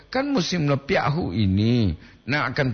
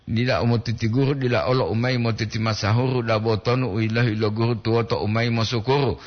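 recited verse; 4 semitones lower, faster than usual. Acted. Melantunkan pantun Gorontalo cepat.

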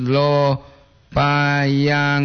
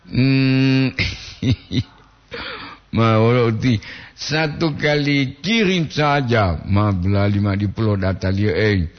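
ordinary talk, nothing marked

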